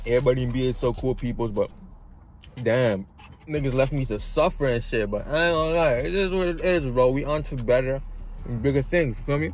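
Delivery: talking with mouth stuffed; words round a mouthful of food; mouth full. Real, not acted. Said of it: "I feel like I'm talking with my mouth stuff too much".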